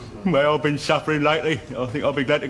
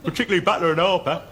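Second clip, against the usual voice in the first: emphatic protest; 5 semitones higher than usual. Acted. Protesting nobody will miss him.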